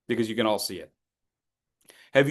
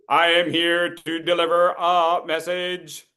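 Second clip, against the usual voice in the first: robotic; 2 semitones higher, slower than usual. Pretend. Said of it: "You're being a forklift".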